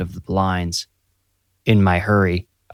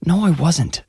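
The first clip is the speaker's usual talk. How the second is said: protesting; 9 semitones higher than usual. A narrator's reading. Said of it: "I protested".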